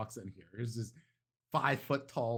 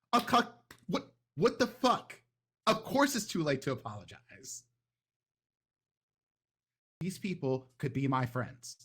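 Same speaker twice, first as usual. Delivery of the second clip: much higher and louder, incredulous fury; outraged shout; 5 semitones higher, 3 dB louder than usual. Acted. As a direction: blow up at the idea of apologizing. Dolce arguing with her other self.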